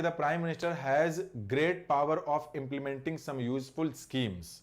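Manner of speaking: slow sentence read-aloud. Shown as a demonstration. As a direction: read the English sentence out slowly and deliberately. Rereads the example slowly.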